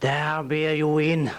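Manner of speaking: creepy, eerie, very slow, drawn-out call. Retelling a voice a chemist heard at midnight, the speaker does the creepy voice of Hanny Green. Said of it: "he'd hear this creepy voice".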